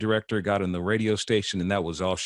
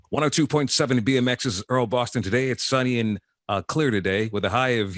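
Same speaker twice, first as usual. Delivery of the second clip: a hint of a DJ reading the weather; lightly voiced radio announcer patter. Shown as a demonstration. Teen practicing DJ patter for his notebook, mock radio voice. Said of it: "cuff my hands like that".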